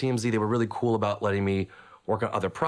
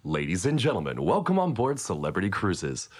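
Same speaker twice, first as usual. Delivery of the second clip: cheesy announcer voice. Retold or imitated. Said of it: "a super cheesy announcer voice".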